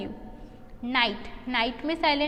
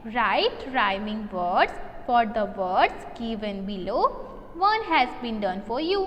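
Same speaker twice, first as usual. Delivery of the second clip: slow reading aloud; 3 semitones lower, much slower than usual. Shown as a demonstration. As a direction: read the question out very slowly and clearly. Teacher reads question aloud.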